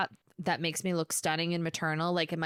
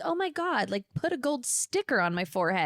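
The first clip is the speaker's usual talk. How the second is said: mock proud; 5 semitones higher than usual. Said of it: "I'm like".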